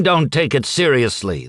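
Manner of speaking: put-on old man snapping at the apologising husband; snapped back. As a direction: throw the words back at him. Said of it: "the man snapped back".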